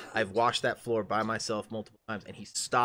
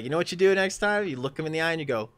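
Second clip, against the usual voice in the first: higher, louder, brisk advice; Megan's advice; 7 semitones higher, 6 dB louder, faster than usual. Retold or imitated. Megan coaching him on the coworker, brisk and firm. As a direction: coach him firmly on what to do. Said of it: "Megan's like".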